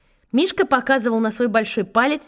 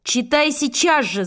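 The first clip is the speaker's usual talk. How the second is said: mild acted teacher's yell, drawn out; exasperated shout; 3 semitones higher, slower than usual. Exasperated teacher ordering a stalling pupil to recite, in a restrained shout. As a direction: order firmly, stretching the words, exasperated. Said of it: "закричала бедная Раиса Ивановна".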